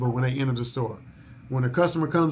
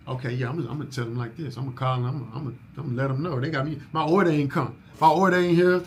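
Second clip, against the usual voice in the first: angry caller rehearsing; faster than usual. Retold or imitated. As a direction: rehearse the complaint, building to anger. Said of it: "they practice in the mirror first".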